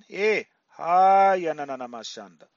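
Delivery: ecstatic burst fading into murmured syllables; speaking in tongues. Real, not acted. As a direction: pray in tongues then let it fade.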